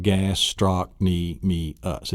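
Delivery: "gastrochny, me, us" slowly chopped into too many beats; over-split syllables. Shown as a demonstration. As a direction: separate every piece of "gastrochny, me, us". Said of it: "It isn't five syllables".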